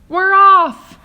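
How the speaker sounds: very high, very loud cheer; excited shout. Acted. A creature announcing the departure, ecstatic loud shout. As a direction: cry it out with glee. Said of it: "someone was shouting".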